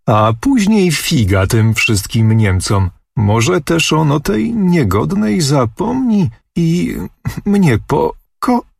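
rising into a tiny high squeak, trailing off in embarrassment; girl squeaks shyly and breaks off; thin squeak. A narrator's reading. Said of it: "pisnęła cieniuteczką". (cieniutki pisk)

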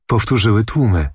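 ordinary delivery, nothing marked

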